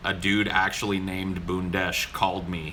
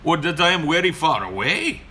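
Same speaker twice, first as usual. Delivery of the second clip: higher mock Indian accent; 7 semitones higher, 4 dB louder than usual. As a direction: insist politely in a put-on Indian accent. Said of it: "I'm like".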